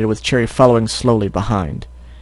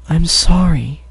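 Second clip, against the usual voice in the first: higher, sincere little sister; heartfelt apology; 5 semitones higher, slower than usual. Acted. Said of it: "she said with all her heart".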